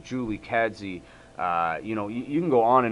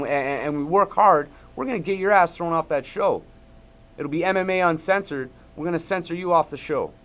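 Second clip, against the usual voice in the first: heated, raised and rising, almost shouting at the host; angry rant; 6 semitones higher than usual. Real, not acted. Vlogger blasting a TV host, furious raised rant. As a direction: let the anger boil over, pitch climbing. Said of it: "I apologize".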